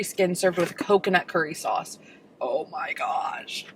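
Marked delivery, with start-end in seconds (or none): 2.4-3.6 slow breathless whisper; awed whisper. Real, not acted. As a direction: whisper it in awe. Reacting to tasting food.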